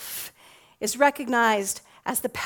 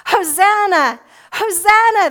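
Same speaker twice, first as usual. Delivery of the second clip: loud, higher festive shout; crowd shouts; 7 semitones higher, 8 dB louder than usual. A narrator's reading. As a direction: cry it out with the whole crowd. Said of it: "the crowd shouts".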